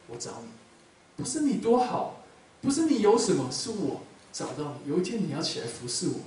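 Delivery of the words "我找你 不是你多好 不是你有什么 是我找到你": voice of God. Acted. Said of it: "可是神说".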